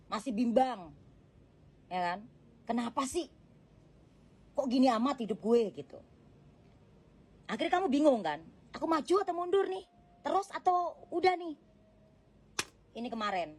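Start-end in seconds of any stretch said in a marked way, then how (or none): 2.7-11.5 the reader mimics the viewer's doubts, anxious and higher; voicing the confused viewer. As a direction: play the confused viewer's fretting.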